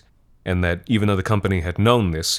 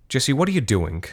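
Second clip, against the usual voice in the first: upset objection; 6 semitones higher than usual. Acted.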